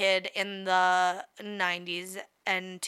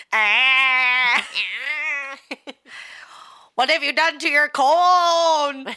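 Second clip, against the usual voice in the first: shocked; 4 semitones higher, 8 dB louder, much slower than usual. Real, not acted. Shocked by the picture.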